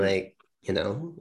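"Like, you know" slow, rising like a question; Valley Girl uptalk. Shown as a demonstration. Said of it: "the Valley Girl lilt at the end".

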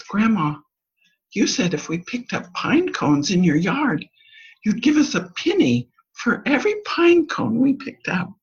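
lightly voiced eager granddaughter; child's voice. Granddaughter reminding grandma of her promise, eager child voice.

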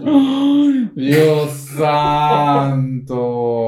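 real shock at what he just heard; shocked exclamation. Real, not acted. Shocked reaction to story. (asombro real, ay agudo y Dios santo muy lento)

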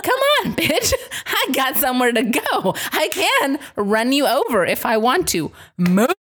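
high, snappy impatient driver; mock road rage. Mom voicing her thoughts at slow pedestrians, mock impatient snap. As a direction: hurl it at the slow walkers.

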